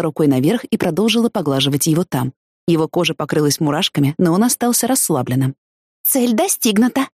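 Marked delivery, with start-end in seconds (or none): 6.0-7.1 slow, high, pleased announcement; gleeful mission report, drawn out; delighted. A narrator's reading. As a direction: savour a small triumph. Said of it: "обрадовалась я".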